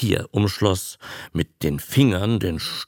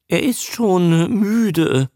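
hasty excuse; 9 semitones higher, 5 dB louder, slower than usual. Acted. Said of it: "erläuterte das Männchen hastig".

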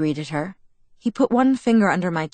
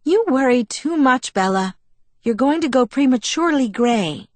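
higher, louder teasing pixie voice; scoffing Alice; 7 semitones higher, 5 dB louder than usual. A narrator's reading. Alice to Bella, teasing her worry. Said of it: "She snorted".

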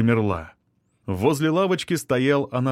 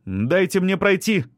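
pitched high, mocking retort; higher female voice, scornful; sarcastic young woman; 8 semitones higher than usual. A narrator's reading. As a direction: needle him with exaggerated sarcasm. Veronika demands to pass.

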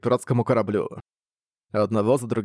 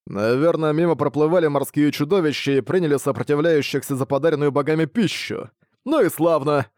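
pirate captain; 4 semitones higher than usual. Acted. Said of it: "осмотрелся и сказал".

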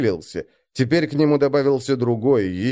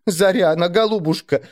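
tearful mother; 7 semitones higher than usual. A narrator's reading. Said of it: "плача спрашивала мать".

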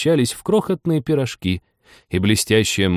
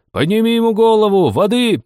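loud high call for help; urgent shout; 12 semitones higher, 5 dB louder than usual. Acted. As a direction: shout for water. Crowd rushes to help.

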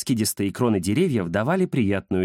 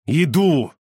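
злобно прорычать громко; рявкнуть со злостью; злобный рык; 5 semitones higher, 5 dB louder than usual. Acted. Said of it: "злобно прорычал Кирилл". (внук злобно рычит деду)

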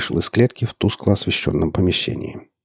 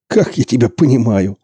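chuckling; 5 semitones higher, 6 dB louder than usual. A narrator's reading. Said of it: "хохотнул Борланд".

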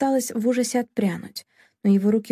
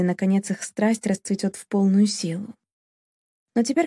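plain reading voice

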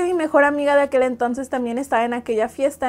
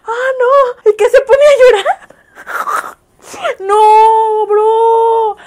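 much higher, louder, half-crying outcry; real shocked wail, higher and louder; 8 semitones higher, 9 dB louder, much slower than usual. Real, not acted. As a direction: howl in disbelief at the story. Shocked reaction to sad story.

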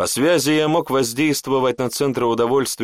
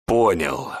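low, squeezed answer in held-back fury; seething reply; 5 semitones lower than usual. Acted. Beaten apprentice answers the mage, seething. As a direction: force the word out through rage. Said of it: "выдавил клокочущим от ярости голосом".

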